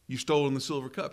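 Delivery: brusque accusing demand; blunt accusation. Shown as a demonstration. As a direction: fire it straight at them like an officer. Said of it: "Do you think they called him".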